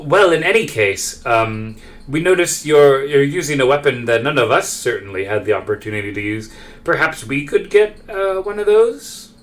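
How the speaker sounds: lightly voiced formal petitioner, pitch lifting; tentative, courteous request rising at the end; polite Marcus.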